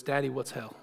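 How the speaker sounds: lightly imitated little Southern girl; sweet Southern girl. Little girl asks her daddy a question, light sweet Southern accent. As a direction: ask with a mild, soft Southern lilt. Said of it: "in her sweet little southern voice".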